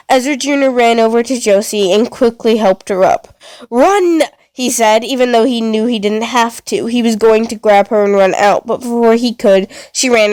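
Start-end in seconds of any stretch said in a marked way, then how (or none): 3.7-4.2 urgent shout. Acted. Urgent warning to sister.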